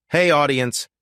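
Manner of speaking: chirpy YouTube sign-off; upbeat outro. Acted. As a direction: wrap up the video and pitch subscribing. Channel outro call to action.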